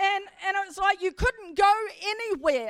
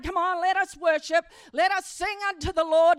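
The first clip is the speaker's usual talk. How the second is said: worship leader call; 4 dB louder than usual. Retold or imitated. Worship leader calling congregation.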